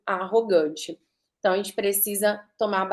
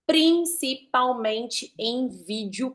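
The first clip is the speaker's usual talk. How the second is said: slow emphasis; slower than usual. Shown as a demonstration. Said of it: "velocidade de fala, as pausas".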